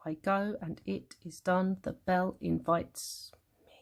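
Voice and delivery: "I go and it is done" softly beaten out in weak-strong pairs; iambic scansion. Shown as a demonstration. Teacher demonstrating didum, "I go and it is done" softly scanned. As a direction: scan "The bell invites me" softly, dropping to a near-whisper. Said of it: "it's the didum didum".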